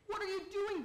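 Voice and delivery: a restrained storybook yell; mild scream. A narrator's reading. Jim protests as leg is grabbed, mild scream. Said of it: "Jim screamed".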